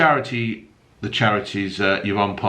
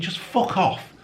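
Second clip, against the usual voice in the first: mock exasperation; 10 semitones higher than usual. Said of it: "I bet she's thinking".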